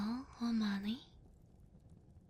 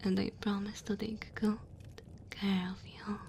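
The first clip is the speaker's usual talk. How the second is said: tender dragon woman. Acted. Dragon woman warming a human by her fire, tender. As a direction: comfort the cold guest, gentle and unhurried.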